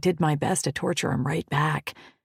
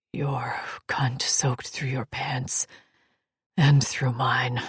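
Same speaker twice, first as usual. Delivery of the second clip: deep male voice; 5 semitones lower, slower than usual. Acted. Kent speaks, low and slow.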